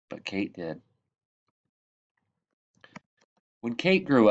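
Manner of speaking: lively read-aloud, bright lifts at each new line; storytelling voice. Acted. Reading The Tree Lady aloud to children, storytelling voice. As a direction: tell it like a bedtime picture book. Reads picture book to children.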